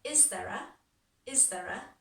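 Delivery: "is there a" run together as one unit; linked words. Shown as a demonstration. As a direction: link "is there a" smoothly, no gaps between the words. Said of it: "kind of links together".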